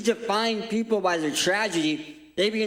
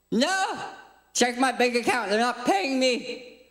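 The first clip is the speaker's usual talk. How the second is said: indignant no; 4 semitones higher than usual. Acted. Indignant denial to fans.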